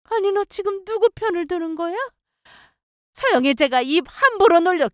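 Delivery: high-pitched indignant protest; indignant mother-in-law. Acted. Mother-in-law asks whose side he takes, indignant.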